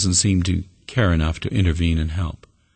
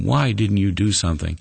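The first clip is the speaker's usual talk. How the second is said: mildly raised, challenging question; indignant challenge; 3 semitones higher than usual. Acted. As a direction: put it to God as a complaint. Turtle's planned complaint to God.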